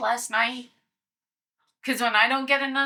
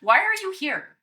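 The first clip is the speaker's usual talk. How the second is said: demanding shout; 5 semitones higher, 4 dB louder than usual. Acted. Player repeats challenge to dragon.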